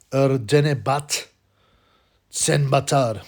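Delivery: Erdenebat Senbatar spelled out slowly, syllable by syllable; careful pronunciation. Shown as a demonstration. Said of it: "pronounce this properly".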